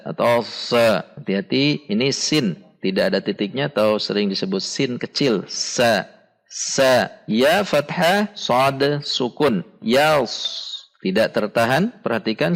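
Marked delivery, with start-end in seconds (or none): 5.5-7.1 "sa" with a light hissing s, no dot; correct sin. Shown as a demonstration. Teacher models the letter sin, light clean s. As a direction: say "sa" with a thin, light s. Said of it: "makhraj huruf sin".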